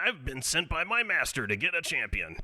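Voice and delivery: put-on Brooklyn accent. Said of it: "I like Barbas with a Brooklyn accent".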